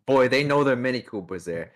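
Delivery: lightly put-on Brooklyn accent; folksy New Yorker gushing. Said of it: "You have the Brooklyn accent".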